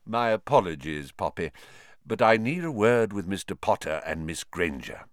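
lightly voiced calm old wizard. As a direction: say it calmly, unhurried. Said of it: "said Dumbledore calmly".

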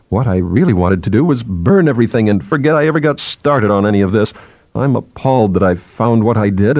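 mildly flustered junior scientist; lightly voiced nervous chatterer; apologetic subordinate. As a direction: babble on apologetically to an angry boss.

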